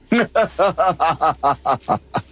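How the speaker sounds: long staccato laugh; drawn-out ha-ha-ha. Acted. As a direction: laugh in a falling run of short bursts. Laugh after speech to crowd.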